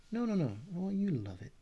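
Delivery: high, insistent Texas twang; Texas accent. Acted. Artist corrects an imagined buyer, insistent Texas accent. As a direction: insist on it as a Texan would. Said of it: "I'd answer 'em back in my Texas accent".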